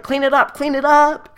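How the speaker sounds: loud, high repeated order, hammed up; frantic mock command; panicked teacher. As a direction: imitate a teacher shrieking in disgust. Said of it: "The teacher's like".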